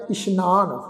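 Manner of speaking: ਇਸ਼ਨਾਨ with sh, not s; dotted sassa, sh. Shown as a demonstration. Teacher showing the dotted letter, ਇਸ਼ਨਾਨ with a sh sound. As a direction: say ਇਸ਼ਨਾਨ as ish-naan. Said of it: "ਬਿੰਦੀ ਲਗਾ ਕੇ ਪਾਠ ਉਚਾਰਨ".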